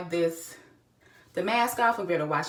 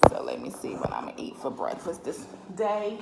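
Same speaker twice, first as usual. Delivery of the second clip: whisper; 3 semitones lower, 6 dB quieter than usual. Real, not acted. Quiet aside to self.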